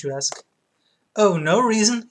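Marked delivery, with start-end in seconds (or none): 1.2-2.1 louder, higher Italian barber; Italian accent. Acted. Barber dodging the customer's question, Italian accent. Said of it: "kinda made him sound like Mario".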